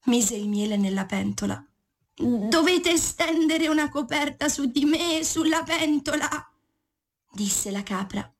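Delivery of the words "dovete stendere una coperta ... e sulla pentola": high goat voice. Acted. Goat gives orders.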